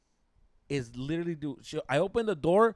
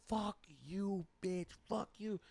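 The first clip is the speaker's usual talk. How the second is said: soft, pitched-up swearing, imitated; mock hushed cursing; 4 semitones higher, 9 dB quieter, slower than usual. Boyfriend at the window after knocking, mock hushed cursing. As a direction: act out cursing through glass, voice held back. Mouthing curses through the window.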